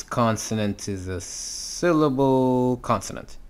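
long glide through "syllable", stopped by "consonant"; monosyllable pattern demo. Shown as a demonstration. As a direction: stretch "syllable", then close on a brief "consonant". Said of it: "When it is a monosyllabic".

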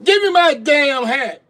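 slow, high, shouted demand; loud demand. Real, not acted. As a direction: yell each word out slowly. Snaps demand after calm talk.

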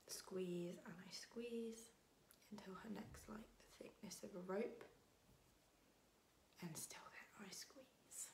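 slow, soft, drawn-out telling; hushed confession. Acted. Telling of squeezing the cat's neck, hushed and slow. Confessing how they strangled the cat.

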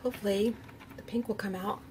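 talking while crunching almonds. Real, not acted. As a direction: chew and talk through the crunch. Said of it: "Sorry if you hear my crunching".

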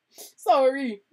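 high, loud sobbing apology; sobbed. A narrator's reading. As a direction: blubber it out through tears. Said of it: "sobbed Hagrid".

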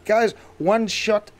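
loud, high excited calling; excited shout. Real, not acted. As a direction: call out in triumph. Excited taming success, calling out.

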